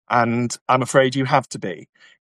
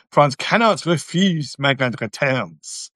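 lightly put-on French accent; mock French accent, only mildly outrageous; slower than usual. Reading Julie's comment to viewers, in a playful French accent. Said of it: "I just had to do an outrageous accent".

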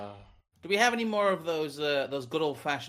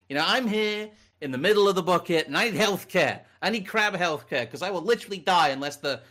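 whiny crab in a bucket; 3 dB louder than usual. Acted. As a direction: protest like a crab refusing to leave the bucket.

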